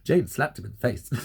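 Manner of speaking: giggling through the words; laughing while telling. Real, not acted. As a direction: laugh as you tell it. Retelling a slap with laughter.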